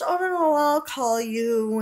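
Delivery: high, loud fake-polite brush-off; loud, high mock dismissal, slowing at the end. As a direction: play the salon girl hurrying you off the phone. Salon woman brushing her off.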